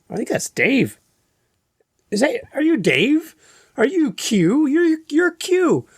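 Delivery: high, excited fan recognizing a voice; high-pitched starstruck fan. Retold or imitated. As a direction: gush like a starstruck stranger. Fan recognizing him in public.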